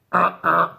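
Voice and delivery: two short effortful grunts; imitated straining grunts. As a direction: grunt like someone straining on the toilet. Imitates man straining on toilet.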